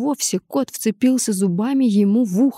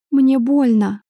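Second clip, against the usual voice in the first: frightened cry; 4 semitones higher, 4 dB louder, slower than usual. A narrator's reading. Heroine in pain and fear.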